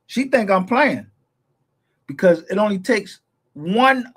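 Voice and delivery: high-pitched, worked-up insistence; heated insistence. Real, not acted. Streamer warning that she thinks he's playing, heated.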